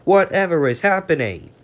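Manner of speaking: high, loud squealing truck chorus. Acted. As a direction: cry out like silly bumping trucks. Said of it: "they bump into each other screaming".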